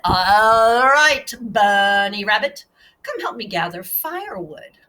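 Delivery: gruff varmint. Acted. Varmint voiced in story.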